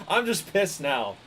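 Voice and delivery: bitter laugh into the words; laughing frustration. Real, not acted. Streamer laughing at his own anger, words through a laugh. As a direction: laugh it off while annoyed.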